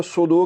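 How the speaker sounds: plain s, like su-du, in "सूदू"; thin seen. Shown as a demonstration. Teacher showing the mistake, thin light s. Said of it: "इस सीन को पढ़ा".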